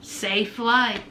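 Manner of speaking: low, soft, unbothered; dismissive send-off. Retold or imitated. Boyfriend dismissing girlfriend's threat to leave, low and unbothered. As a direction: drop it low and quiet, unconcerned.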